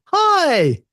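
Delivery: high, chirpy gadget greeting; monitor voice. Pretend. Explaining HDMI to the host, a high monitor voice. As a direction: play the monitor saying hi brightly.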